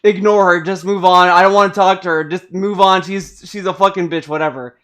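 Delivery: a grumpy talking book shrugging her off; dismissive book. Retold or imitated. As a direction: wave the player away, annoyed. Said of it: "And the book is like".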